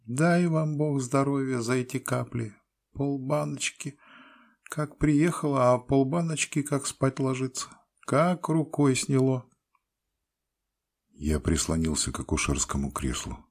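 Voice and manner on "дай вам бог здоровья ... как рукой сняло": very high, sing-song peasant woman. A narrator's reading. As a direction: trill it out happily, way up high. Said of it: "пела бабочка".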